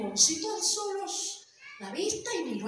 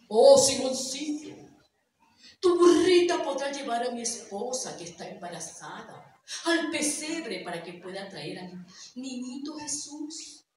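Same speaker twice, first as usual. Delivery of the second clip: put-on kindly old man; 4 semitones lower than usual. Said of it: "el señor se le quedó mirando y le dijo".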